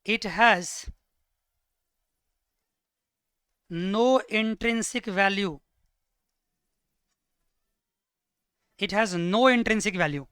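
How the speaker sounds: stretched, very slow words; teacher dictating at writing speed; slow dictation. Shown as a demonstration. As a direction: drag each word out for writing. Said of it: "एक और लिखो".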